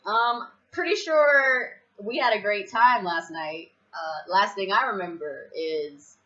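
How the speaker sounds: tentative confusion. Retold or imitated. Acts out confused morning-after question.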